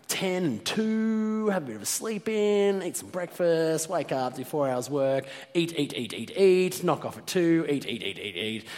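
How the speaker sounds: high, sing-out fantasy of food; gleeful daydream. Retold or imitated. Hungry traveller imagining free meals, gleeful and high. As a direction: reel off the plan in a high, greedy voice. Young self dreaming of easy eating.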